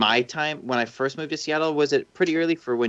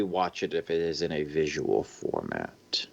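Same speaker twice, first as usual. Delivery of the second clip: whispering; 7 semitones lower, 7 dB quieter than usual. Real, not acted. Reading question, drops to whisper.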